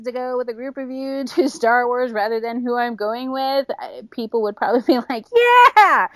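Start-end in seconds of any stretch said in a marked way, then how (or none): 5.8-6.1 loud, high whoop of agreement; short, punchy mock cheer; imitated cheer. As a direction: cheer it like an eager crowd. Imagined group cheering her on.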